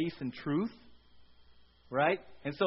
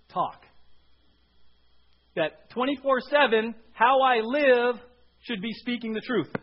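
much louder, higher, slowed for emphasis; preaching climax; 4 semitones higher, 6 dB louder than usual. Real, not acted. Preacher to church, louder, slower and higher at the climax. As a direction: drive the point home. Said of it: "emphatic sermon climax".

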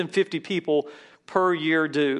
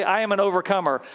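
"I am an overcomer" a bit faster and louder with conviction; said like you mean it; 3 semitones higher, 4 dB louder, faster than usual. Shown as a demonstration. Pastor modelling a believing, excited declaration. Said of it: "say it like you mean it, you believe it".

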